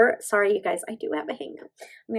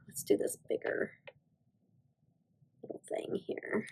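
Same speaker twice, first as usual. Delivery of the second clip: whispered; 13 dB quieter than usual. Real, not acted. Quiet crafting aside.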